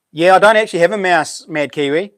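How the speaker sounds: a bit hoarse, tickle in throat. Real, not acted. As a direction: talk past a throat tickle. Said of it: "I got a bit of a tickle in my throat".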